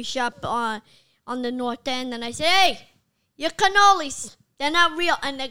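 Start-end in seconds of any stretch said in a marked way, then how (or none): 2.5-5.2 raised, higher-pitched challenge; acting out a brash complaint; retold confrontation. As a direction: call them out loudly, drawn out. Confronting a pastry shop, retold.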